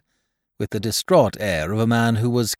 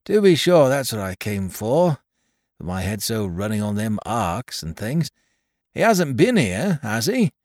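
put-on higher, fussy little old man voice; little old toymaker Caleb; 4 semitones higher, 3 dB louder than usual. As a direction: fret and ramble like a humble old toymaker. Caleb recalls Tackleton's parcel.

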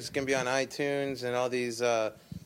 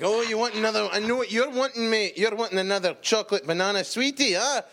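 mock teasing; 6 semitones higher than usual. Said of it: "We're like".

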